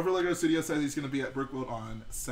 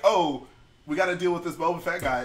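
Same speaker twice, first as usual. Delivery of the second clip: mock alarm; 2 semitones higher, 6 dB louder than usual. Mimicking an alarmed reaction to the villain.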